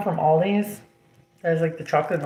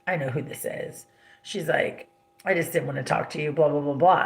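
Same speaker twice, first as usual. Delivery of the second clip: mimicking mother; 4 semitones lower, 3 dB quieter than usual. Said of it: "she goes".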